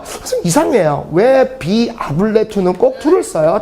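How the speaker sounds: a laughing, mock-puzzled student; laughing question. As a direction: giggle through the question, teasing teacher. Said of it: "그래서 막 웃으면서".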